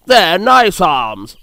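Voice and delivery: slow, lightly offended helicopter. Acted. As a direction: say it with mild hurt pride.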